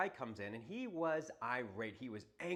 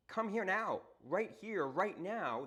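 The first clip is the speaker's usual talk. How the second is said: raised, urgent call to snap him out of it; 6 semitones higher, 4 dB louder, slower than usual. Retold or imitated. Imagined words to an irate customer, an urgent raised call. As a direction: jolt him into the moment, higher and louder.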